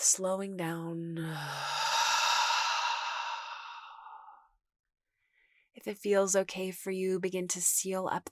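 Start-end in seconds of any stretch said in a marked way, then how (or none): 1.4-3.8 gentle, lengthy sigh out the mouth; slow exhaled sigh. Shown as a demonstration. Guide modelling the last exhale, slow gentle sigh. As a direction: sigh out, letting it fade away. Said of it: "sighing out the mouth".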